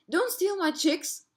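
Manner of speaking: high, drawn-out storybook cry; mild scream. A narrator's reading. Mother ostrich sees her chicks taken, mild high scream. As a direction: cry out in protest, slow and high, without full force. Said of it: "saw what was happening and screamed".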